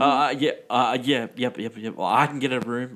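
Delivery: flustered imitation, stammering over repeated agreement; awkward. Nervous man agreeing to book a hotel room, awkward stammer. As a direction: mimic someone hesitant and socially lost. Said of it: "Like, he's so awkward".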